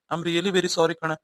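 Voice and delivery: slow, earnest apology; husband slowly pleading sorry to his wife; sincere apology. Acted.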